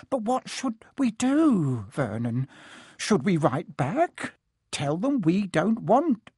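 high, slow, quavering appeal; anxious aunt. A narrator's reading. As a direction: plead with your husband for guidance. Frightened aunt pleading with husband.

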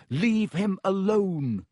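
high, slow, drawn-out command; shouted. A narrator's reading. Harry shouting at the snake to protect Justin, shouted. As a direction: shout it slowly, each word stretched. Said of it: "he had shouted stupidly".

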